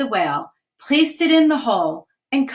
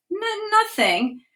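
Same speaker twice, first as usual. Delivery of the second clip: scared stammer; 10 semitones higher, slower than usual. Acted. Scared girl stammers after fright.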